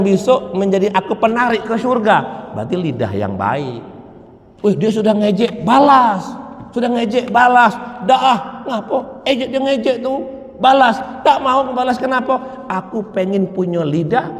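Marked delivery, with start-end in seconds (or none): 4.6-7.7 egging on. Retold or imitated. Voicing friends urging revenge. 8.1-12.7 taunting friend. Retold or imitated.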